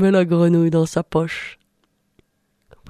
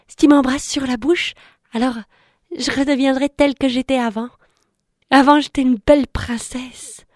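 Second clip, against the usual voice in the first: frog princess voice; 4 semitones higher than usual. Acted. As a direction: coax him with a cheeky little voice. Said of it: "et lui dit".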